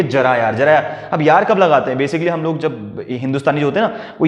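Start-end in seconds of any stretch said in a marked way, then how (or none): 0.0-1.1 coaxing. Shown as a demonstration. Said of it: "बोलिए".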